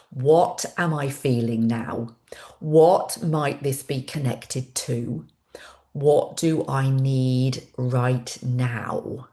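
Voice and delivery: whispered journaling prompts. Shown as a demonstration. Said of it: "Journaling is a fantastic thing".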